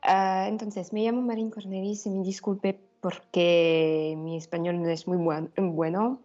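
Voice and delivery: Spanish with a mild Italian accent. Real, not acted. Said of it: "Es una mezcla tra-, entre español e italiano". (español con acento italiano)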